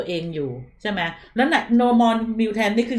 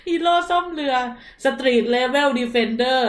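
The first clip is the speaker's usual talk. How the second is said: higher, giggling through the words; laughing; 4 semitones higher, much slower than usual. Real, not acted. Streamer laughing at a viewer's joke hero name, giggling.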